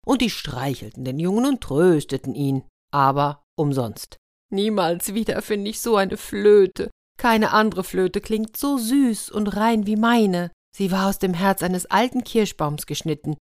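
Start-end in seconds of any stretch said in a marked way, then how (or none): 4.5-13.4 hammed-up wail over the lost flute. The boy wails to the elves about his flute. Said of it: "jammerte der Junge".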